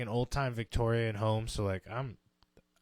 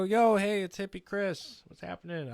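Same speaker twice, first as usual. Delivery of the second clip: higher, eager hey through the door; cheery greeting; 7 semitones higher, 4 dB louder than usual. Retold or imitated. Hippie Chris greets the locked room cheerfully, higher and louder. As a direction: sell yourself as a friendly guy knocking. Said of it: "And I go".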